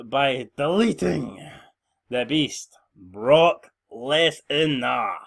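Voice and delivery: lightly voiced broken wrestler, slow and drawn out; broken Matt Hardy voice. Wrestler calls out the chairman in a lightly voiced broken drawl. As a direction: stretch the words like an unhinged wrestler. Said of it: "is broken down".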